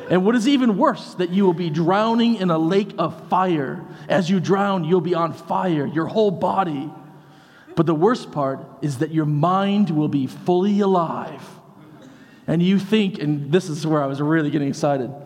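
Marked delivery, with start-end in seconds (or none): 0.1-11.6 hellfire preacher. Retold or imitated. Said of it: "revert right back to the Sinners of the Hand".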